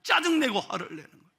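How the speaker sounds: usual speaking voice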